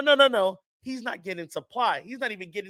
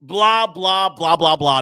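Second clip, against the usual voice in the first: mocking fans; 6 dB louder, slower than usual. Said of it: "that y'all like to say".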